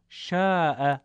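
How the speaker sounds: شاء with the long a held a little longer; stretched madd vowel. Shown as a demonstration. Teacher showing students the madd, drawing out the vowel. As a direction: draw out the aa in شاء.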